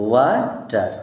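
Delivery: ওয়াটার broken into two syllables; ওয়া, then টার, separately; split into syllables. Shown as a demonstration. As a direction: say ওয়াটার in two parts with a gap between. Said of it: "এখানে ভাগ হয়ে আছে".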